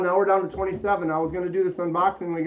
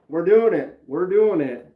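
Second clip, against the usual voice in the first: pumped up; 4 dB louder than usual. Real, not acted. Hyped about the unboxing.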